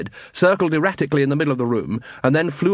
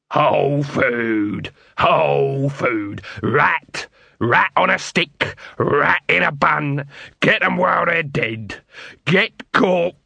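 street vendor calling; 2 semitones higher, slower than usual. Acted. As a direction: call out wares to the street.

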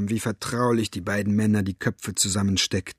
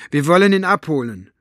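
small voice pitched higher; high and thin; 5 semitones higher, 6 dB louder than usual. A narrator's reading. Maggie announcing they will fetch her father, high and thin. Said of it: "Ihre Stimme klang hoch und dünn".

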